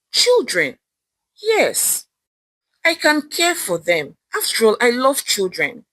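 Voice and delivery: rising delight at a new idea; a bright burst of discovery; sudden excitement. Acted. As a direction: blurt it out as the idea hits.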